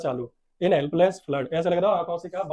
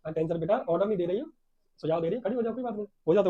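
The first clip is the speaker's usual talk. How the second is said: friendly suggestion; 2 semitones higher, faster than usual. Acted. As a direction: suggest it kindly, keeping the volume down. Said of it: "but just a friendly suggestion".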